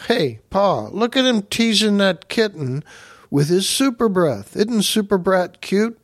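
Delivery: high, eager little boy voice, lightly voiced; a kid gleefully showing off to his dad; excited kid. Kid cheering on super baby.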